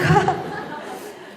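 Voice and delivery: high falling laugh; real laugh. Real, not acted. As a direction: chuckle at the story's twist. Laughs at own story. (높게 떨어지는 웃음)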